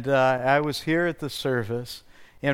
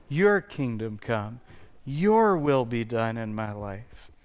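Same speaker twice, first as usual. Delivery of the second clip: hushed, lower sincere prayer; 5 semitones lower than usual. Acted. Quiet prayerful repeat.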